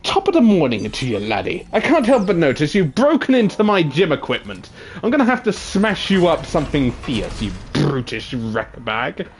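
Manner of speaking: over-the-top British gym bro; British bro accent. Pretend. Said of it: "how does a British bro sound like?".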